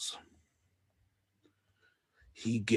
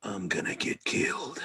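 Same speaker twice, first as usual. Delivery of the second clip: scared whisper. Acted. Courier whispering his fear of being caught. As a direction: hiss it in fear.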